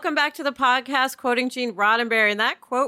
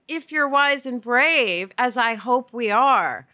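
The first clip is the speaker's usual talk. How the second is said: quoting warmly; slower than usual. Retold or imitated. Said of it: "He's saying".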